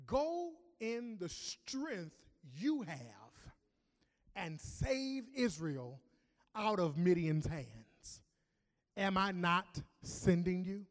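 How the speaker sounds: very slow, weighty divine command; slow solemn God. Acted. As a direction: lay each word down slowly. God speaking to Gideon.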